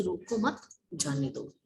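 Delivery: रोको मत run together, break, then जाने दो; pause after मत. Shown as a demonstration. Teacher restating the second meaning to pupils, pause after मत. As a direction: put the comma after मत, before जाने दो. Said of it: "मत के बाद में हमने जब अल्प विराम".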